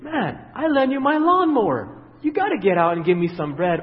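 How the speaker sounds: a pushy neighbour working his favour; mock demanding neighbour. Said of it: "He didn't say".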